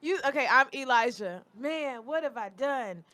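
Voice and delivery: lightly imitating his friend's regret; a hint of a sorry drunk; mocking Elijah. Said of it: "let me do it".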